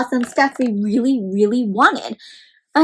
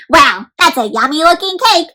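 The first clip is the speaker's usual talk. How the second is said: eager robot; 2 semitones higher than usual. Acted. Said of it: "says this robot".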